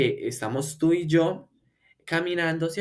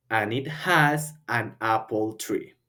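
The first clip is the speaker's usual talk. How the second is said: slow model line; 3 semitones lower, slower than usual. Shown as a demonstration. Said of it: "Y termino yo".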